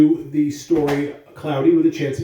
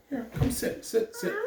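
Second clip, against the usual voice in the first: hushed coaxing; 14 semitones higher, 11 dB quieter than usual. Real, not acted. Settling a small child.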